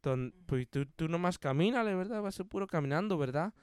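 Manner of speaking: lightly imitated Spanish instructor; casual instructions, each tagged with a questioning verdad; Don Verna. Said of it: "he's like".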